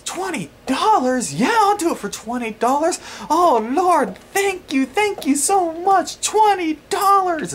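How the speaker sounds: very high, slow ecstatic redneck holler; redneck woman yelling. Retold or imitated. Seller thrilled by twenty dollars, high redneck yelling. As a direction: shriek it high in overjoyed mock gratitude. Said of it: "literally kept yelling that over and over".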